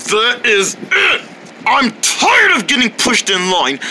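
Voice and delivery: fed-up yelling; angry shout. Acted. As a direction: blow up at them. Angry outburst about line.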